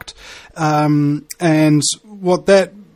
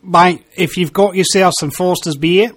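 Australian accent. Shown as a demonstration. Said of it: "they kinda talk like this".

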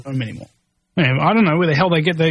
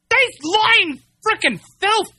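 disgusted insult; 14 semitones higher, slower than usual. Real, not acted. Angry insult at company.

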